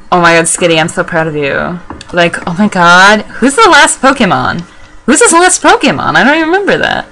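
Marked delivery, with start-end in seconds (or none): 3.4-7.1 much higher, squeaky-pitched questioning; alarmed disbelief. Real, not acted. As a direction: ask in a high mock panic. Mock panic over last opponent Pokemon.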